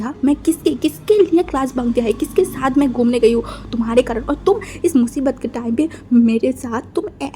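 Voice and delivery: loud, hurt, accusing outburst; girl berating her laughing boyfriend, loud; angry rant. Acted. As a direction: pour out the grievance at him. Girlfriend's tearful angry rant.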